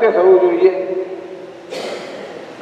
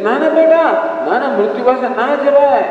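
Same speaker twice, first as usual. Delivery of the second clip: higher, urgent no no to his son; pleading father; 6 semitones higher than usual. Acted. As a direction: beg him not to go. Remorseful father stops his son. (પસ્તાતા પિતા પુત્રને રોકે છે, ઊંચા સૂરે આજીજી)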